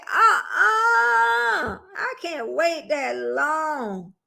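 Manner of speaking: high, slow whining protest, half-hammed; mock wail. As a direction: wail it like a spoiled complaint. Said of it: "was already like".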